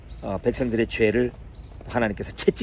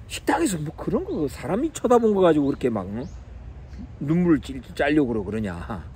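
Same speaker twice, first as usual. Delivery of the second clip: retold scolding; 4 dB quieter than usual. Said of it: "혼내기도 하고".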